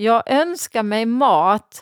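put-on Finland-Swedish accent. Retelling a girl's answer when her mother asked her Christmas wish, Finland-Swedish accent. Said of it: "säger hon på svensk-finska".

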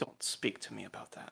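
soft, breathy, barely voiced whisper. Voicing the mother who leans in to the player character: whispering in character. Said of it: "and she whispers here".

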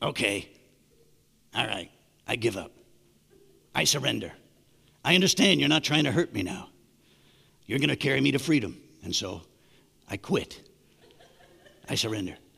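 very low, husky little squirrel-like critter voice. Imagining what a squirrel being carried to freedom would say: husky little squirrel voice. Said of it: "I'd imagine it would be a husky little voice".

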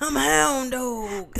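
very slow delivery, word by word. Retelling a friend's impression from Fox and the Hound: Hound impression. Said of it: "Willie does this impersonation of the Hound".

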